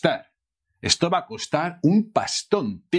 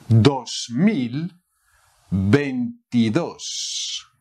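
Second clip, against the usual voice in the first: "veintidós" drawn out slowly; slow model; 2 semitones lower, much slower than usual. Shown as a demonstration. Teacher modelling the year slowly for learners. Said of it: "How to say two thousand".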